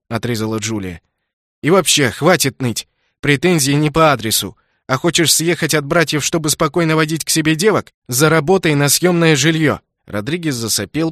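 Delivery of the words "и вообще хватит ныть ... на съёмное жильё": stern scolding. Acted. Cop scolds the brother.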